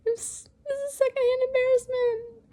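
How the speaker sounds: high, tearful laughing; laugh-crying. Real, not acted. Reader overcome with secondhand embarrassment, laugh-crying. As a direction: choke it out through laughter. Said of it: "I'm literally crying right now".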